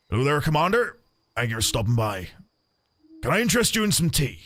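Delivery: lightly voiced Italian kobold, not Scottish; a hint of an Italian accent where Scottish was meant; wrong voice, not Scottish. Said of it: "That was the wrong voice, wasn't it? He's meant to be Scottish".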